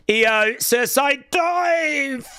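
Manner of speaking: drawn-out excited call; excited shout. Real, not acted. Live match call, big move.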